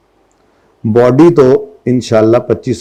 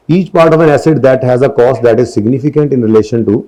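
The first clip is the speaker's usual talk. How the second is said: slow, deliberate dictation read; measured classroom reading; slow textbook reading; much slower than usual. Acted. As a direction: read it out word by word for notes. Reads textbook definition aloud.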